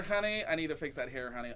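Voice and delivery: lightly camp stylist drawing out "honey"; playful sassy stylist; mock sassy honey. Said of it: "You're like".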